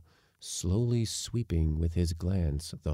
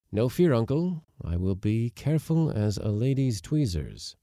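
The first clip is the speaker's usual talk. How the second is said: put-on cheeky boy; 6 semitones higher, 4 dB louder than usual. Boy replying.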